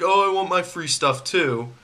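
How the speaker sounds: lightly whiny, mocking imitation. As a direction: put on a half-hearted whine like a greedy customer. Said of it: "sounds really whiny".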